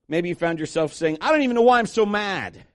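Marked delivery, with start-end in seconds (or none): 1.2-2.7 higher, mildly worked-up outburst; exasperated anger. Acted. Preacher voicing someone who is frustrated, mild exasperated outburst. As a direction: let mock frustration boil over a little. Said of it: "in the form of anger".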